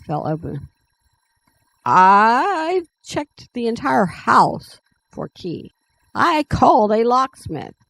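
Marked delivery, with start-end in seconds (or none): 1.8-7.8 stretched-out, higher, mildly exasperated disbelief; incredulous. A narrator's reading. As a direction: protest in raised-pitch amazement, drawing out the first word. Character's shocked outburst over the key.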